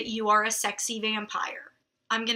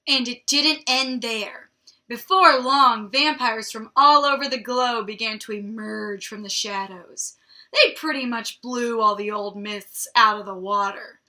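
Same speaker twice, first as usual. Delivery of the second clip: emphatic, dramatic read-aloud; story narration; 5 dB louder than usual. A narrator's reading. Reader telling how vampires emerged worldwide, dramatic story narration.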